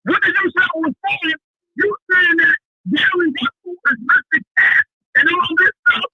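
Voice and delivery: worked-up, insistent protest; screaming. Real, not acted. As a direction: argue loudly down the phone. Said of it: "You're screaming too loud".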